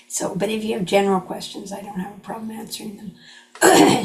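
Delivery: hoarse voice, catching in the throat; frog in throat. Real, not acted. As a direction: voice going rough mid-sentence. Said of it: "my voice has gone a bit".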